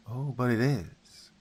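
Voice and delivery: slow, menacing, a hint of something sinister; darker tone. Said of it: "Her tone became much darker".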